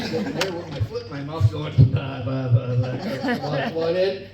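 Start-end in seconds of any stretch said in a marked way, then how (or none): 1.9-4.3 stammering through laughter; sputter, caught red-handed; flustered stammer. Retold or imitated. Embarrassed dad stammering at his boss, laughing.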